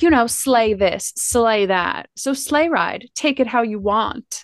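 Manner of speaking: lightly imitated talk-show host; Wendy Williams. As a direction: give a hint of a TV host impression. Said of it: "gets a little Wendy Williams in her voice".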